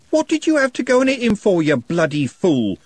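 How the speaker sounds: high, loud furious yell. A narrator's reading. Trev yelling at Algernon for the blow, furious. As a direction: scream it at the fool who struck.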